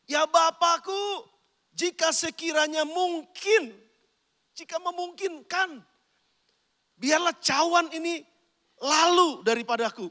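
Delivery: slow, drawn-out pleading prayer; Jesus. Acted. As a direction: plead earnestly to the Father, stretching each phrase. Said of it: "tiga kali dia berdoa seperti ini".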